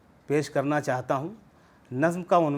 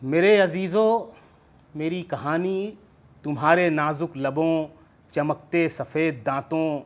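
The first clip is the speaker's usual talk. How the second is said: measured verse, each phrase set apart; poetry recitation. Acted. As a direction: call out the opening, then recite evenly downward. Recites second poem.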